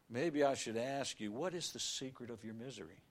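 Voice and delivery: usual speaking voice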